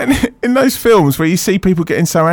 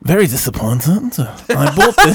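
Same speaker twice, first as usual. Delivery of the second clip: light mock French accent reading the review; a hint of a French accent. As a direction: read it with a vague French accent. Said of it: "in a French accent".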